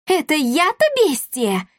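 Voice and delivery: high, slow indignant retort; offended anger. A narrator's reading. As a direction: bristle at the insult. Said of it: "разозлилась Дарина". (возмущённо и зло, высоким голосом)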